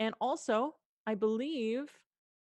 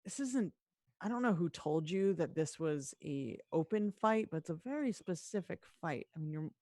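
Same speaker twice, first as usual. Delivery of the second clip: lightly voiced half-orc; 2 semitones lower, faster than usual. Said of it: "and is like".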